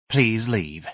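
ordered. A narrator's reading. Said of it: "the spokeswoman ordered".

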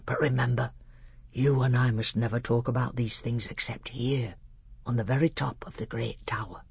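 lightly voiced, hushed learned doctor; measured, grave teacher with a hint of awe; solemn old tutor. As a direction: speak as a tutor revealing the heavens to a prince.

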